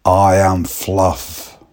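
slow, deliberate I am Fluff; slow odd declaration. Retold or imitated. Young lad announcing himself as Fluff, slow and deadpan. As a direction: say it slowly and solemnly.

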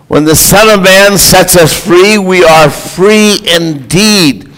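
emphatic pulpit prayer with weighted key words; proclaimed prayer. Real, not acted. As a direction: pray aloud for the congregation, declaring each phrase. Leads the congregation in prayer.

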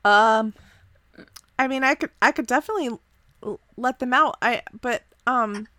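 a fidgety guy caught out, hedging; nervous Dave. Acted. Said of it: "wringing his hands a little nervously".

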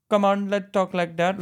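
put-on Indian accent. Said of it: "why don't they do the Indian".

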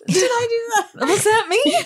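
high nasal nerdy squeal; Urkel impression. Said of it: "Urkel, it was you".

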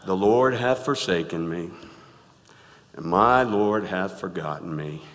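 a hint of glum Eeyore; gloomy Eeyore reading. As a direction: drag it out like a sad donkey. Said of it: "read it like Eeyore would read it".

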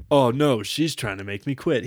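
lightly imitating a wordy friend; mock flowery speech. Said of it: "He talked like this".

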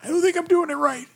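strained goblin voice. Acted. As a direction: squeeze out a goblin accent. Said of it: "that accent and the drained voice".

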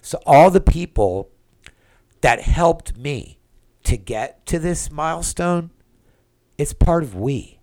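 fighting back real tears; close to tears. Real, not acted. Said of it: "now I feel like I'm gonna cry".

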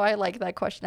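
ordinary talk, nothing marked

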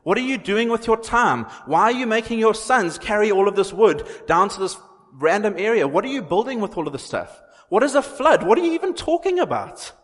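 loud, very high-pitched incredulous jeering; hammed-up mockery in a high, loud voice; mocking scoffer. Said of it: "were mocking at him, they were scoffing".

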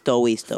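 "stowy, stowy" with w for r; mispronounced stories. Retold or imitated. Co-host mimicking her stupid stuff, "stowy, stowy" with w for r. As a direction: say "stowy, stowy" like baby talk. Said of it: "says fucking stupid stuff like".

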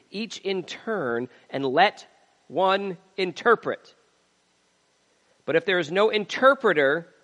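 emphatic public Bible reading; scripture reading. Acted. Preacher reading Paul's letter to the church, emphatic scripture reading. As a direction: read it out firmly with stressed key words.

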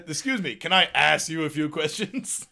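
lightly voiced, laughing through it; Ace Ventura voice. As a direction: quote it with a laugh. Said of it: "And you go".

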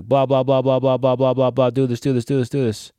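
mock nagging chatter. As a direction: imitate someone prattling unwanted advice without a break. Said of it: "they're just like".

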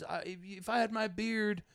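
a light high mock of a kid; lightly voiced high whiny kid; whiny young heckler. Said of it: "He goes".

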